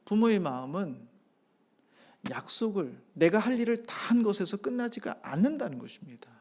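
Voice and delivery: usual speaking voice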